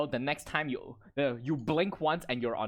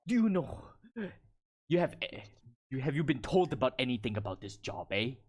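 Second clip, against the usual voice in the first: lightly voiced accented Goliath; inquiring Goliath woman. Goliath woman asking comrades about the job, in character. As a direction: sound them out as a Goliath warrior.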